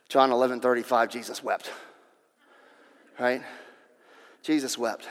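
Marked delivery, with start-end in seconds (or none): 0.1-1.7 put-on rebellious teenager. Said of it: "rebellious teenager".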